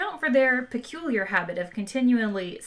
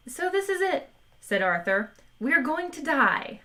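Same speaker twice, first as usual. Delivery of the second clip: panicky Arthur; 6 semitones higher than usual. A narrator's reading. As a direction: wail it in despair.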